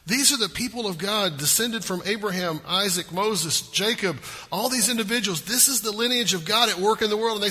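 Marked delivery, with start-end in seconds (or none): none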